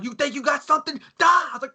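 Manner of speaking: high, wild mock challenge; retold fight taunt. Cornered teen goading his attackers, high acted yelling.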